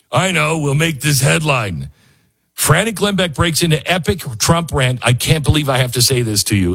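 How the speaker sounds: hamming up the clickbait headline; mocking headline writer. Host mocks the headline writers, hammed-up excited read. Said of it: "This is like".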